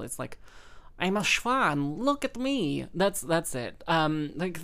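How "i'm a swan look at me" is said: Impression of a singer. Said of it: "a little bit more nasal".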